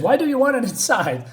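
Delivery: mock-horrified bafflement; shocked, retold. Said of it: "shocked about what's happening".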